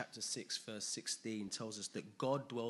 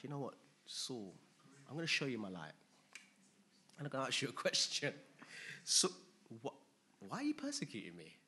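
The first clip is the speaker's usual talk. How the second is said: gentle Jesus; 3 dB quieter, faster than usual. Pretend. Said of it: "He's like".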